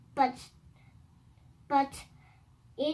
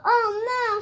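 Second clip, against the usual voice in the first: crying; 5 semitones higher, 3 dB louder than usual. Acted. Birthday ruined, crying heard.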